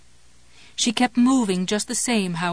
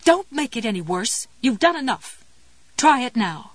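urgent mother voice; 3 semitones higher than usual. Acted. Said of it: "the mother voice screamed".

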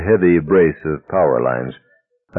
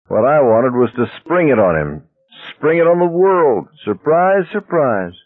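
gleeful; 7 semitones higher than usual. Acted. Gleeful reveal of his plan.

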